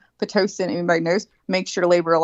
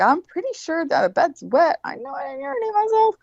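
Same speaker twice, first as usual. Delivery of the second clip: tag. Retold or imitated. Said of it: "I was like".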